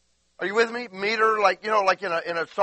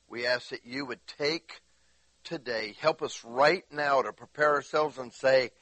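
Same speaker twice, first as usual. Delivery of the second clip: prayer; 2 semitones lower than usual. Acted. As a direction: pray gently to Jesus. Leads prayer.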